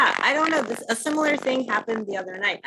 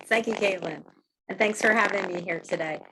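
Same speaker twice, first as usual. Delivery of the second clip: vibrating voice. Real, not acted. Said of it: "your voice is vibrating or something".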